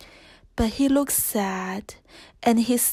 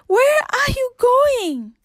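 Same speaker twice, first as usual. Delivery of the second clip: much higher, slower worried cry after a bolting horse; alarmed call; 12 semitones higher, 3 dB louder than usual. A narrator's reading. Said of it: "Belle cried".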